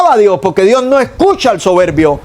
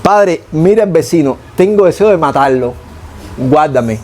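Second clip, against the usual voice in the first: honest plea; 5 semitones lower than usual. Shown as a demonstration. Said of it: "Así".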